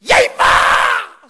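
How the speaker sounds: 훨씬 높고 크게, 느리게 늘인 "야, 임마!"; 때린 녀석에게 버럭 호통치듯. Retold or imitated. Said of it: "소리 지르니까". (맞고 화나서 선수에게 버럭 지르는 고함)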